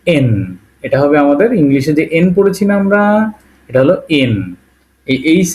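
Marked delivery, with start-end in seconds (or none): 0.1-0.3 এন, n sound for Н; এন as the letter Н; Russian en. Shown as a demonstration. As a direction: say এন, not এইচ. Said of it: "কিন্তু এটা actually".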